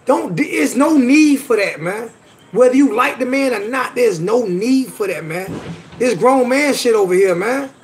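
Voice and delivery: slow, drawn-out stress on key words; indignant, emphatic telling-off; real exasperated rebuke. Real, not acted. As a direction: scold a viewer who crossed the line. Upset rebuke of insulting commenter.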